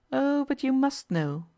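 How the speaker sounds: slow, smiling, coolly confident; calm smile. A narrator's reading. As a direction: smile as you press her, unhurried. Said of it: "smiled Nella calmly".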